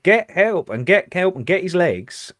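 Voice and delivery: officer shouting to his colleague while blinded; urgent call for help. Retold or imitated. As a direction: call out for help mid-struggle. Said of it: "I'm saying to my colleague".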